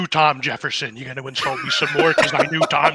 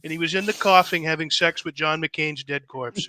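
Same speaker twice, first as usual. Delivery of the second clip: higher, brash presidential bluster; Trump-style rant; 4 semitones higher than usual. Pretend. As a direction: boast it like a blowhard president.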